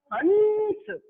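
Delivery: हंस with the nasal after ह; हंस drawn out, अनुस्वार sounded after ह; clear demo of haṃs. Shown as a demonstration. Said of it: "बोल के देखिए". (हंस का स्पष्ट उच्चारण)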